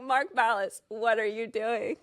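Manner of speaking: slowing into a baffled demand; exasperated scolding. Acted. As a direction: call him out in disbelief. Scolds a silent player on screen.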